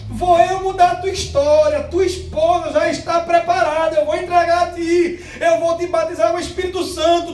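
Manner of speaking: high, loud prophetic proclamation; God speaking through her. Retold or imitated. God speaking through the sister to the kneeling man, loud high proclamation. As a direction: pour out promises as the voice of God. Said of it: "Deus falando através dela".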